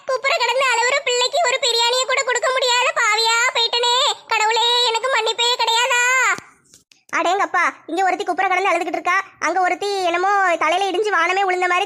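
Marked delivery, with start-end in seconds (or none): 0.1-6.0 higher, hammed-up despair; mock tragic plea to God; melodramatic lament. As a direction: cry out to God theatrically.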